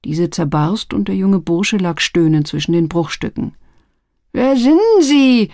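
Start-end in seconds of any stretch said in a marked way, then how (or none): 4.3-5.5 high, slow, dazed gasp of a beaten lad; dazed frightened youth. Acted. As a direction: stammer it out from the floor. Beaten youth gasps question. (hoch und langsam, benommen und verängstigt)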